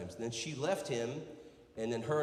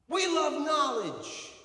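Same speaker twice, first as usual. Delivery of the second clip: high, drawn-out demonstration yell; big rallying shout with stretched words; 14 semitones higher, 6 dB louder, much slower than usual. Shown as a demonstration. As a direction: holler it slowly for a crowd to copy. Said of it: "I need one man to yell".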